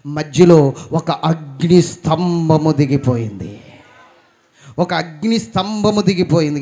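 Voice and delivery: loud, slow, every word hammered home; fiery proclamation. Acted. Preacher booming to the congregation, slow and loud. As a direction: boom it out to the congregation.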